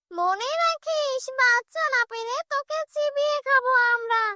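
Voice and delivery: high, menacing witch-spirit; threatening shakchunni. Acted. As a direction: threaten as a hungry she-ghost, drawing out the warning. Shakchunni threatens to eat tantrik.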